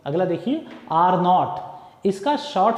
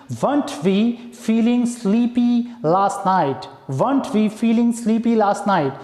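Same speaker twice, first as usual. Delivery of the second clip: slow dictation; much slower than usual. Shown as a demonstration.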